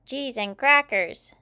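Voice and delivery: slow, loud, high astonishment; amazed exclamation. A narrator's reading. Robot first sees mummy robot, loud amazement. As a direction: exclaim it drawn out, awestruck.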